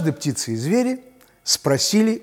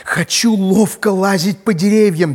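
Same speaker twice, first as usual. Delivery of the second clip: squirrel voice; 6 semitones higher, 6 dB louder than usual. Acted. Squirrel asks to climb.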